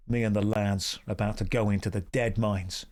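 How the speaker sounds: put-on a lightly done old Cockney British accent; Michael Caine. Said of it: "Michael Caine, the old British accent".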